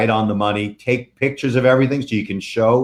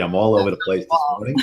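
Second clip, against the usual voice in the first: jittery; faster than usual. Real, not acted. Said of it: "first, I had too much coffee".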